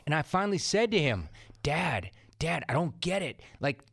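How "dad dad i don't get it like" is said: higher, pleading disbelief; retold plea to a sick father; exasperated plea to dad. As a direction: beg him to make sense of it.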